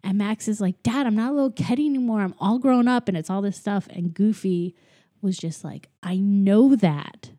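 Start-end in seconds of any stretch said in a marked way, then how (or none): 0.8-3.1 quick, higher-pitched retold protest; mock yelling. Host retells son protesting to dad, mock yelling. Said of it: "just yelling at each other". 6.0-7.3 slow, louder retold retort; half-yell it as an imitated dad, dragging the words; mock yelling. Host retells dad answering grown-up son, mock yelling. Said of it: "just yelling at each other".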